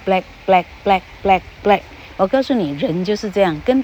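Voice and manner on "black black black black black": BLACK five times, short and evenly spaced; repetition drill. Shown as a demonstration. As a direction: drill BLACK slowly with a stopped final k. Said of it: "你至少念二十次". (BLACK 一个一个短促地重复念)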